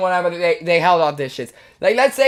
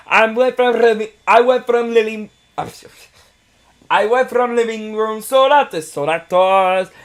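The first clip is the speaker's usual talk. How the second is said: put-on Italian accent. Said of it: "We need more Italian accent".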